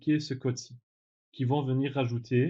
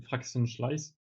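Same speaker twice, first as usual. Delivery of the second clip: English name with a French accent; much slower than usual. Real, not acted. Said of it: "désolé pour mon accent en anglais".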